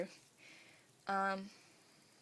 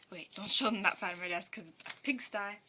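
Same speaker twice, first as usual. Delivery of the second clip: hushed aside to the cameraman; whispering; 3 dB louder than usual. Real, not acted. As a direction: whisper it off to the side. Aside to brother behind camera.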